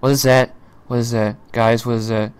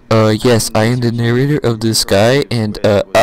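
lower, halting mock presenter; mocking narrator; 4 semitones lower, faster than usual. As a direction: mimic a bumbling narrator, stumbling on uhs. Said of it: "this fucking narrator sucks".

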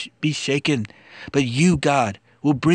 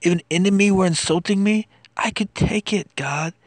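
impassioned plea; 5 semitones higher than usual. Acted. Anguished lament in psalm reading.

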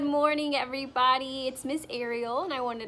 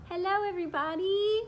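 higher, quick little puppet voice; Max the puppet; 7 semitones higher, much faster than usual. Pretend. Puppet Max greeting the class, high quick puppet voice. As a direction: chirp hello as the cheerful puppet. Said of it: "Say hi, Max".

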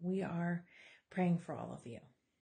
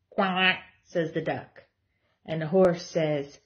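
lively, sing-song picture book reading; reading to children; 9 dB louder, slower than usual. Acted. Mom reading a board book to her kids, animated storytelling. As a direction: read it out like story time for toddlers.

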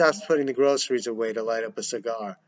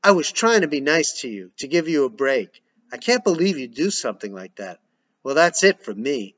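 a bit louder, hurt and angry; livid; 4 dB louder than usual. Acted. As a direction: let him have it, barely holding back.

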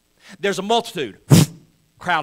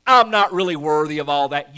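lightly voiced, laughing whoa whoa, slowing down; a hint of an embarrassed Jesus waving it off; playful pretend protest; mock humble Jesus; 8 dB louder than usual. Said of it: "that he has to say".

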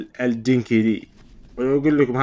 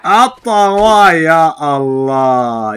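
startled shout; 6 semitones higher, 12 dB louder, much slower than usual. Real, not acted. Startled in a fight.

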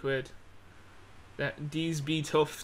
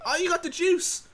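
mock surprise; 4 dB louder than usual.

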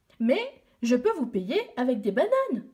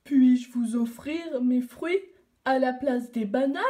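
d'un air désolé; 3 dB louder than usual. Acted. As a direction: offer gently, sorry. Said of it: "d'un air désolé". (Baobab désolé propose ses fruits)

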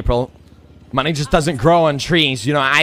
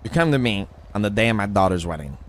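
lower, quick Godfather-style delivery; mob boss act; 4 semitones lower, faster than usual. Acted. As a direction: lightly play a mafia don setting the scene. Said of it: "We'll put it like this".

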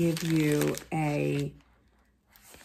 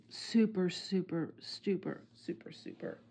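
each "super" softer until it is a whisper; fading to a whisper; 6 dB quieter than usual. Real, not acted. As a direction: let the repeated word die away into breath. Repeating word, fading out.

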